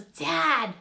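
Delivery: high, loud scolding; mock mortified kid; embarrassed child. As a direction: hiss at Dad to quit. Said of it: "looks at the people and goes".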